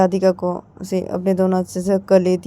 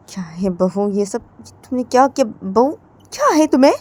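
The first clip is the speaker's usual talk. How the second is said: hushed then sharp, like an irritated elder; scolding mother-in-law; 3 semitones higher than usual. Acted. Mother-in-law scolding her bahu, hushed then sharp.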